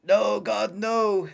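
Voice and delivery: lightly voiced despairing team boss; Toto Wolff. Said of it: "Toto Wolff right now".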